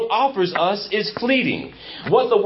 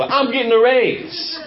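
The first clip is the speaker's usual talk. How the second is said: raised-pitch mock cry of joy; mock excited scream; 4 semitones higher than usual. Preacher imitating a churchgoer thrilled about a raise, mock excited yell. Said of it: "go scream on Yampa".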